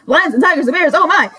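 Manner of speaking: high, laughing "oh my" of disbelief; laughing exclaim. Real, not acted. Laughing at the coughing roommate, high and incredulous. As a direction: laugh it out, half joking, half appalled.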